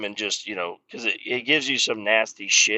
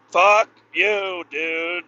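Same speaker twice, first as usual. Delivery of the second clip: loud, higher-pitched outburst; angry retort; 7 semitones higher, 5 dB louder, much slower than usual. Retold or imitated. Fed-up worker answering a demand to shave, angry. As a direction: burst out at him, loud and high. Retelling angry reply to coworker.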